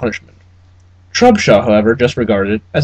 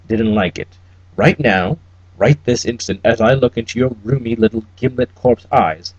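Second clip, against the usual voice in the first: cold German menace. Acted. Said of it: "Cabal's accent was clipped and fatally Teutonic".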